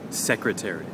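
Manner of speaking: "secretary" stressed on the opening SEC; stress on first syllable. Shown as a demonstration. Teacher modelling a word for learners, first-syllable stress on "secretary". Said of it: "emphasis on the first syllable".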